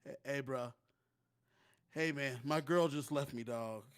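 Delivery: a heartbroken dude complaining; sad bro voice. Pretend. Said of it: "I'ma be one of Jawan's friends".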